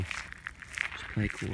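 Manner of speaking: soft, slow whisper; hushed, slow, sneaking past the ducks; mock whisper.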